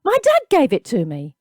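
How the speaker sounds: put-on boy pleading for his father's case; upset protest. A narrator's reading. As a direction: plead for it back. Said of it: "he protested".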